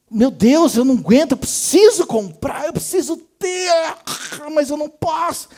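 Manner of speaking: mock agony of a shopaholic; desperate craving. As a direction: whine like you can't bear not buying. Acts out craving to buy things.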